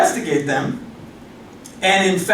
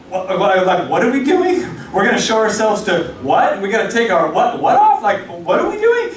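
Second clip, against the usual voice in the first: confused Samaritan. Retold or imitated. Samaritan baffled by the priest ritual, squeaking in confusion.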